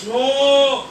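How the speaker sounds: a sudden loud "No."; emphatic no. Real, not acted. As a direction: slam the answer down. Answering his own question. (un "No" rotundo y fuerte)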